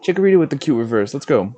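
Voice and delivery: high, fast excited exclaim. Real, not acted. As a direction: burst out with delight. Pulls a card he likes.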